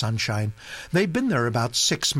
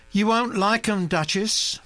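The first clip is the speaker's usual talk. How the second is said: warning; 9 semitones higher than usual. Acted. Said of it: "she said, warningly".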